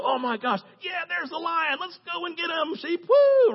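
high, silly put-on voice; hammed-up high cheer ending in a whoop; mock wimpy shepherd. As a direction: squeal it like a clueless shepherd. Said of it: "He didn't go".

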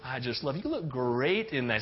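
dote on her, a bit too much; super sweet. Retold or imitated. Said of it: "super sweet and super nice".

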